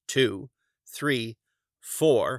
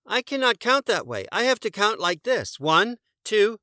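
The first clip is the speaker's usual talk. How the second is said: very high, earnest moose voice; Morris the moose; 10 semitones higher, 5 dB louder than usual. A narrator's reading. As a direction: insist up high and sincere. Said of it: "Morris said".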